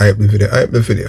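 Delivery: ordinary talk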